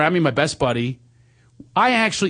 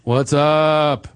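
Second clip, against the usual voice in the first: Frank from ninth grade; much slower than usual. Retold or imitated. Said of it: "I do Frank from ninth grade".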